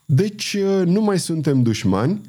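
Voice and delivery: a touch of friendly cheer; smiling question. A narrator's reading. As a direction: ask it with a smile. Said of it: "întrebă cavalerul zâmbind".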